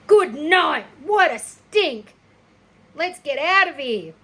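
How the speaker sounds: high, loud disgusted cry; disgusted boy. Acted. Avery fleeing the rotten egg stink, loud and disgusted. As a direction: recoil from the awful smell.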